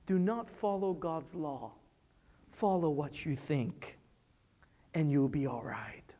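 soft, hushed coaxing serpent. Retold or imitated. Serpent softly tempts Eve to disobey, hushed. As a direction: ease it out quietly, a sweet-talking snake. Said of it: "Probably his voice was very soft".

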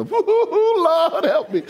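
laughing it out, slow and high. Real, not acted. Pastor laughing at his own spanking story, slow and high. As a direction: chuckle through the words.

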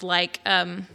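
normal talking voice

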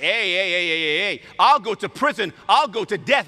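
loud, high, insistent objection; hammed-up eager protest; protesting Peter. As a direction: cut in and swear your loyalty.

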